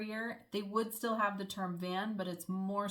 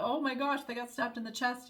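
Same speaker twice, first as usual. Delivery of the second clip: mock shock; 4 semitones higher than usual. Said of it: "So I was like".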